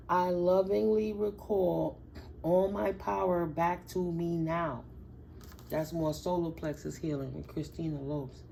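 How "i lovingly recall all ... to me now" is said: affirmation. Shown as a demonstration. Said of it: "I'm gonna say my affirmation".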